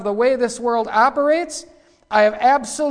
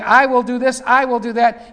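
louder proud I will do this, I will do that; Lucifer's boast; 4 semitones higher, 6 dB louder than usual. Retold or imitated. Preacher voicing Lucifer's boast, louder and proud. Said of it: "here you've got Lucifer saying".

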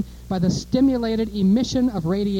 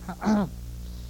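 throat clearing; 2 semitones lower, 8 dB quieter than usual. Real, not acted. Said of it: "Almost choke".

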